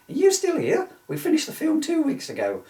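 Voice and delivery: high, hammed-up Italian director accent; mock Italian accent. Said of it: "before I did the accent".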